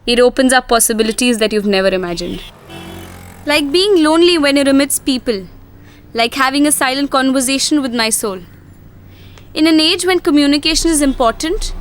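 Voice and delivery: measured first-person voiceover; reflective story narration. Acted. Deaf woman reflecting on her life, reflective narration. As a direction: narrate your own life, unhurried.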